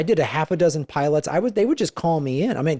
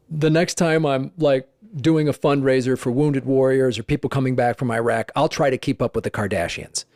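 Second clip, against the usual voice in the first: sarcastic retort; 3 semitones lower than usual. Retold or imitated. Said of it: "And I said".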